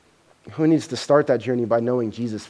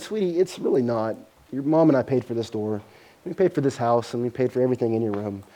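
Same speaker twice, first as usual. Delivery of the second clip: soft, patient father explaining; calm father; 2 semitones lower, 3 dB quieter than usual. Retold or imitated. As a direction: keep it gentle and steady. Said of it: "he just very calmly said".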